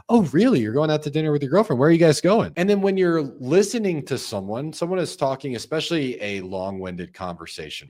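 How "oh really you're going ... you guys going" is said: high, quick, interested reaction; right way with lively verbal cues; engaged listener. Shown as a demonstration. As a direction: lean in and react to the news. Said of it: "verbal cues sound like this".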